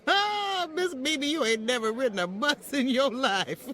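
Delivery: bursting into a laugh; amused teasing laugh at the boss; laughing disbelief. Acted. Maid laughs at employer's claim.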